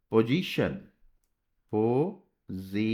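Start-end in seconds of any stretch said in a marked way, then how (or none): 1.7-2.8 drawn out slowly. Shown as a demonstration. Teacher writing पोजीशन on the board, drawn out slowly. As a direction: stretch पोजीशन out slowly, ending on a rise. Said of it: "अब पोजीशन तो ऐसे पढ़ा था".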